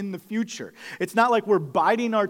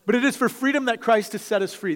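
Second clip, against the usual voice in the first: emphatic repetition; 6 semitones higher, 4 dB louder, faster than usual. Real, not acted. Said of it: "This statement is, is massive".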